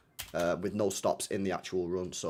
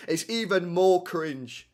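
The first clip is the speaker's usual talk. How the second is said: slow, amused words through a laugh; 7 semitones higher, 3 dB louder, slower than usual. Real, not acted. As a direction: crack up at your own cringe. Cracks up at own accent attempt.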